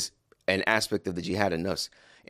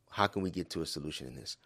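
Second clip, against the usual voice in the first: calm reply. Pretend. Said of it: "with a calm tone after a pause".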